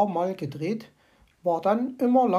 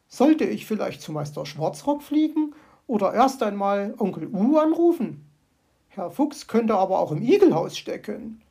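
a little louder, thoughtful bird voice; magpie pondering; 5 dB louder than usual. Acted. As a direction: puzzle it out as the magpie.

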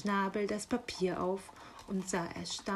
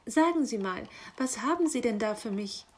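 eager, nosy question; excited magpie; faster than usual. Acted. Magpie asking the raven about her parcel, excited. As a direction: pounce on the first word, then hurry on. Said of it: "fragte die Elster aufgeregt".

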